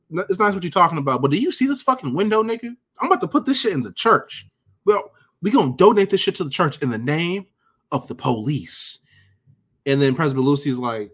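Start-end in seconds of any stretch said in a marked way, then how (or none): 0.1-9.0 pitched way up, brushing him off with a hint of the boss; lightly voiced pushy boss, higher; mock Valchek. Valchek blowing off Presbo, pitched-up mocking boss voice. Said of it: "Valchek says".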